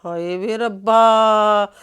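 a mother groaning to God, very slow; exasperated sigh. Acted. Mother despairs at son's bus-stop crush, slow wail. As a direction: drag it out slow in despair, ਹਾਏ ਵੇ ਰੱਬਾ stretched long.

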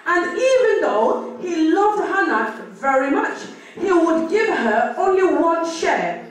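measured, deliberate reading aloud; scripture reading. Acted. Sister reads the passage to the congregation, deliberate scripture reading. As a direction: read out the Bible passage phrase by phrase.

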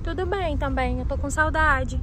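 tinny speakerphone call. Acted. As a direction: voice through a phone speaker. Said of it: "colocar no Viva Voz".

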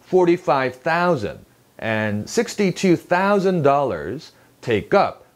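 slow phrase, "take up" stressed on UP; deliberate figures, then lean on "up"; "take UP" with the second word stronger. Shown as a demonstration. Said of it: "두 번째 단어에 강세가".

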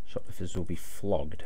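slow, loud sign reading; stern warning read. Acted. Player reading the shop's warning sign, slow and loud. Reads shop sign aloud.

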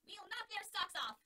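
high, loud, slow boast; Scraps' voice. Acted. Scraps promising Alex to win, high, loud and slow. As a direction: promise it with big gusto. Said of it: "Scraps told him".

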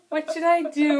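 mock a helpless friend in a zombie attack; imitating panicky helplessness. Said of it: "Gabrielle will be like".

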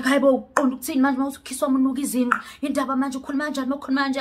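rapid-fire mock outrage in a put-on guy voice; guy's indignant reply. Imitating the pushy guy, fast and indignant. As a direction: rattle it off fast as the offended man. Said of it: "And he's like".

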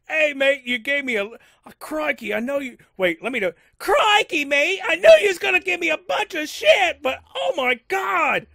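high, loud Aussie shout with laughter; Data's Aussie voice. Retold or imitated. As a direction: belt it out like a rowdy Aussie mate. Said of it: "I know that's not Data, but it's close".

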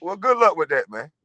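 high sarcastic "Well, hey" then easy brush-off; dismissive. Retold or imitated. Telling the rival buying his house, sarcastically dismissive. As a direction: wave him off with mock good cheer. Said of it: "I said".

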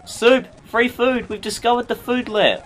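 high, loud, gleeful discovery; excited exclaiming. Real, not acted. Player discovers free food aboard, excited shouting. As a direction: announce a wonderful find at full voice.

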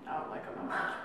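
speaking between bites; talking while chewing. Real, not acted. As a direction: mouth partly full of candy. Seen 1: both women eat small candy bits, hands at mouth throughout.

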